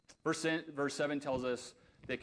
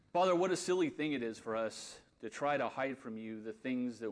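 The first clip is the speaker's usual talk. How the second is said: steady, earnest prayer to the Father. Acted. Pastor closing the sermon in earnest spoken prayer. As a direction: pray it aloud for the congregation.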